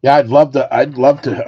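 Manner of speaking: loud. Real, not acted. Loud mock eager reply.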